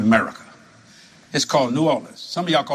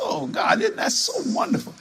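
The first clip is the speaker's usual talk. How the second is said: delighted gush. Retold or imitated. Quoting his delighted reaction.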